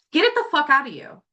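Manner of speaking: high, forceful command; emphatic. Real, not acted. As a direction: push it out with force. Emphatic urging.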